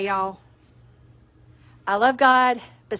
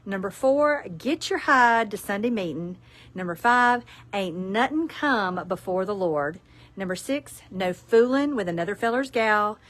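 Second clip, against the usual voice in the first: Southern reading; 3 dB louder, slower than usual. Acted. Reads Southern Ten Commandments.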